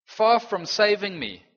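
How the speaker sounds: loud, high, slow lament; preacher voicing David's loud lament; anguished cry. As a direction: stretch it out in anguish. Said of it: "He says".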